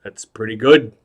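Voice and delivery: a hint of a low tough-guy actor; Robert De Niro. Actor judging a clown's trick, lightly imitated low voice. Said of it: "That's my Robert De Niro impression".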